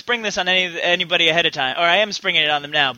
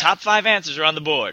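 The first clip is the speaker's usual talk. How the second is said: game show host; 3 semitones lower than usual. Acted.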